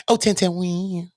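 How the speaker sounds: high, mocking lady voice; sing-song teasing; light falsetto taunt. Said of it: "That's the lady voice".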